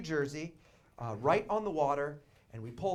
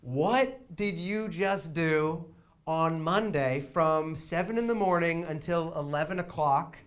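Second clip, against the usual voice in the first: slow, incredulous; 5 dB louder, slower than usual. Real, not acted. Disbelief, slowed.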